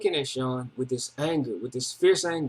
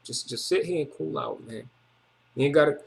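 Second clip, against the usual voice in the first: calming down; 3 dB quieter than usual. Retold or imitated. Old head calms a crying, vexed Ray, soft and hushed. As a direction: hush a furious friend down gently. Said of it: "my old head was like".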